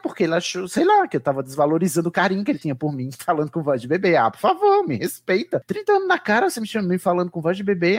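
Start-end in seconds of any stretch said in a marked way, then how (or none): 4.2-8.0 exasperated, pitch leaping high; indignant protest. Retold or imitated. Fed up with an adult's baby talk, indignant protest. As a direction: protest in disbelief, high jumps on the outbursts.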